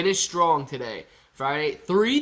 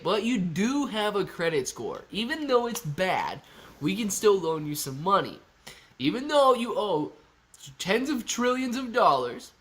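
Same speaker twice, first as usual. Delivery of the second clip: sugary reassurance; 2 semitones higher than usual. Retold or imitated. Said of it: "But she'd be like".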